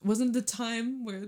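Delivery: real choked-up attempt to continue; crying. Real, not acted. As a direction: try to speak through tears, then give up. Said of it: "I'm literally crying right now".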